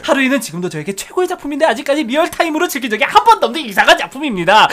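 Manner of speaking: speed-reading. Shown as a demonstration. Co-host racing through a long listener message, speed-reading. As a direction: race through the long message without stopping. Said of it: "제가 최대한 빨리 읽겠습니다".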